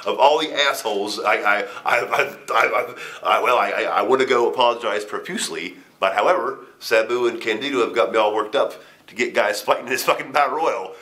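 spiral into panic after hitting the baddest man; panicked inner voice.

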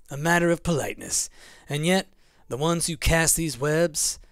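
haughty, poetic creature, lightly voiced; Mothman. Reads Mothman's verse and speech.

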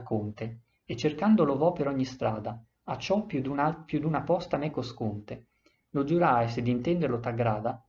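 put-on measured recital of old Italian verse; solemn epic recital; poem reading. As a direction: read the stanza like a poem, line by line. Reads the epic verse aloud.

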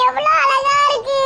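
choked-up wonder; moved to tears. Acted. Two friends moved to tears by the rainbow. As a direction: admire it with tears in the voice.

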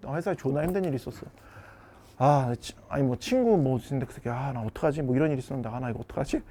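low, soft worried grumble; troubled confiding. Acted. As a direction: confide your troubles, voice dropped low and quiet. Acting a boyfriend confiding his troubles. (낮고 작게 하소연하기)

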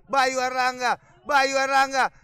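rising frantic goal scream; goal call. Real, not acted. Goal call in football commentary.

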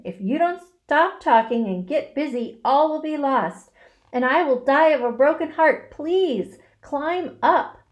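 loud, high, building plea; desperate. A narrator's reading. Pig will lose his friend's eggs, desperate. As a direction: beg with all you have. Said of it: "said Wilbur in desperation".

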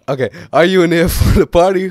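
put-on high, loud girly voice; man doing a woman's voice. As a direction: read it as a giggly girl. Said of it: "I need to do a girl voice".

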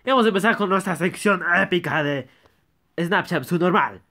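loud, fast hype voice; hyped intro. Acted. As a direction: announce it like a show host.

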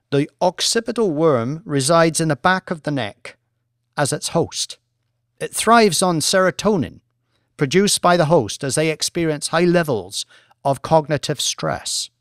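a lightly voiced academic lecturer, measured and assured; professor presenting. Professor lecturing the traders, calm and assured. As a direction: present the research to the bored bankers.

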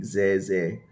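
"ze" begun with a buzzing Z; Hanoi Z sound. Shown as a demonstration. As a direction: demonstrate the Z sound in "ze". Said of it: "with the Z sound".

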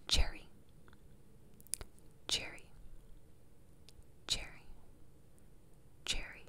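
spaced-out whispers, close to the ear; whispered test word. Pretend. Doctor testing which ear hears the word, whispering. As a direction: whisper the word, leaving long gaps. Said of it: "I'm gonna whisper something to you".

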